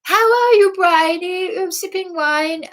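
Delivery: lampoon a smug manageress; mocking posh greeting.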